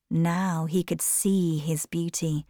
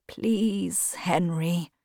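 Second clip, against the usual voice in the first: sadly; 4 dB quieter, much slower than usual. A narrator's reading. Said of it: "said Basil sadly".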